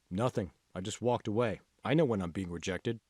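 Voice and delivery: a lightly voiced young man, low and soft, giving up; dejected Kevin. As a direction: mumble it low like a beaten student.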